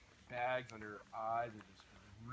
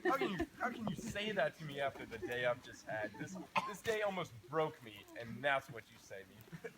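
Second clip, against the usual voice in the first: going off; 3 semitones higher, 5 dB louder than usual. Retold or imitated. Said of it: "In my head, I went off on my grandma".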